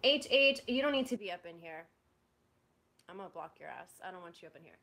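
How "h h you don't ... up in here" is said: sudden loud call-out; loud scolding of someone nearby; yelling. Real, not acted. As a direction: shout at someone to get out.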